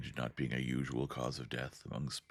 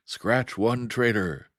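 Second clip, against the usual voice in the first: slow, higher shouted battle cry; yelling; 6 semitones higher, 7 dB louder, slower than usual. A narrator's reading. Screen speaker voice yelling a kill, slow and loud. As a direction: yell the kill over the speaker, drawn out. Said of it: "somebody was yelling out of a screen speaker".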